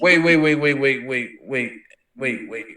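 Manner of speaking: laughing wait. Real, not acted. Caught off guard reading aloud.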